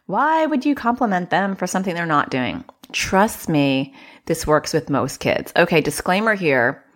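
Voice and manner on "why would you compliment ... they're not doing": high mock-incredulous what; squeaky disbelieving listener; skeptical listener. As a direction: play the doubting parent, pitched up.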